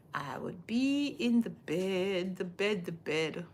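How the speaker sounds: sleepy whisper repeating the bed. Real, not acted. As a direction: drop to a breathy whisper, repeating. Repeats the line, now whispered.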